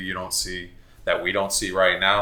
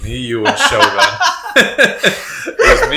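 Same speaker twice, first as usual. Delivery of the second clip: very high, squeaky laughing speech; helpless laughter; 9 dB louder, slower than usual. Real, not acted. Starting a high school story to friends, breaking up laughing. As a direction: lose it completely while trying to talk. Storyteller cracks up mid-sentence.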